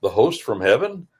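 host from heaven asked with a rising, puzzled tune; a mild, baffled rise at the end; puzzled question. Retold or imitated. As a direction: wonder aloud like a schoolboy who doesn't get it. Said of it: "when I was a boy saying this in school".

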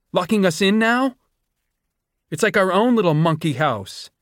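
locked-in student mocking the doctor; bitter sarcasm. A narrator's reading. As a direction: spit the joke at her in fury. Sejanus finds door locked.

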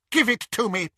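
high rough snatcher voice. A narrator's reading. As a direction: voice a grabbing thug.

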